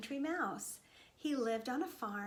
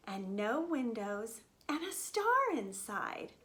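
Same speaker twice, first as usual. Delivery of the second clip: hopeful little mouse. Acted. Mouse asks lambs to help solve mystery, lightly voiced plea. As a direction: ask hopefully, then spell out each clue.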